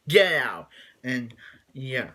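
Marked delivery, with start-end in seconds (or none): 0.1-0.7 shouted get out. Retold or imitated. Lex throws Chloe out.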